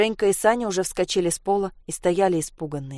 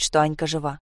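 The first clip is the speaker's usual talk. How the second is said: ordinary delivery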